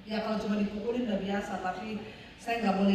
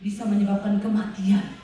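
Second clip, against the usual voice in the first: reading the warning; 3 dB louder than usual. Retold or imitated. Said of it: "Saya baca ini".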